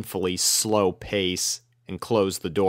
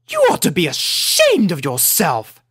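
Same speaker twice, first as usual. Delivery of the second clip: higher, louder stern scolding; haughty high scolding; scolding Rarity; 7 semitones higher, 4 dB louder than usual. A narrator's reading. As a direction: tell off the cat like a prim lady. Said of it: "chastised Rarity".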